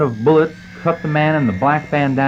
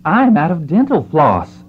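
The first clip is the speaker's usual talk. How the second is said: yell; 5 semitones higher than usual. Acted. Doctor complains from his office window to men below, yelling. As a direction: call it down from a window, half yelled. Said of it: "yelled the doctor from the window".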